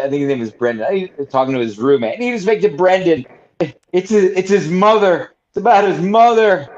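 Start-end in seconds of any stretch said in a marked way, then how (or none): 2.2-6.7 hammed-up tearful plea, pitched higher; fake crying. Prank caller fakes crying on phone to roommate, pitched-up mock sobbing. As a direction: pretend to sob for a prank, voice up high. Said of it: "was pretending to cry on the phone".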